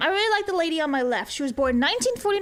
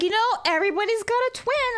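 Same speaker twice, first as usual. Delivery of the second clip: higher, lightly voiced old man; a hint of an old man sharing wisdom; 7 semitones higher than usual. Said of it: "And he's like".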